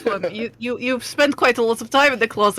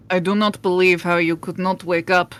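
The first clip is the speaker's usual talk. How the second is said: put-on questionable Eastern European accent; 3 semitones lower than usual. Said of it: "questionable Eastern European accent".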